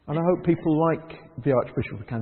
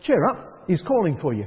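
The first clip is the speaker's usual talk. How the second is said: bright encouragement. Retold or imitated. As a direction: lift him up, cheerfully urging. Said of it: "the others who say".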